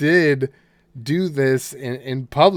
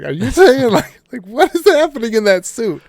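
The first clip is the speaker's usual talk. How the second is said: baffled retold question; 9 semitones higher than usual. Retelling a baffled reply in a sketch.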